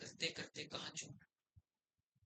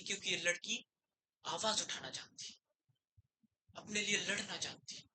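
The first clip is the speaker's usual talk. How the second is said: ringing declaration; 4 dB louder than usual. Acted. Lawyer declares girl fights back.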